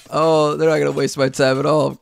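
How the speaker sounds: mocking voice. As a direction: mimic a cocky, dismissive boast. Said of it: "Someone saying".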